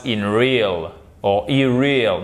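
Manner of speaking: in real and irreal quoted as mistakes, prefixes in- and ir-; wrong forms demo. Shown as a demonstration. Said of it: "vous ne pouvez pas dire".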